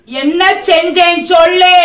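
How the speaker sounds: slow, loud, insistent demand; husband demanding his wife explain, slow and loud. Acted. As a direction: drag it out loud, demanding an answer. Husband demands answer in quarrel.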